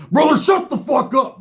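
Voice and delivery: high-pitched, irate retort; imitated angry outburst. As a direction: cut him off in a high, heated voice. Roach snaps back at advice.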